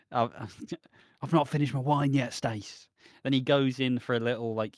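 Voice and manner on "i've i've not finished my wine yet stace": a light put-on Max voice, with a laugh breaking in; half-laughing impression of Max's smooth line; mock Max voice. Max lingering over his wine with Stacy, laughing mock voice. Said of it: "I don't know why he's speaking like that".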